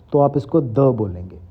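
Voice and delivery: "द" said short, with a schwa, not दा; teacher models द with a short schwa. Shown as a demonstration. English teacher showing students the short schwa द. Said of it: "दा नहीं कहेंगे".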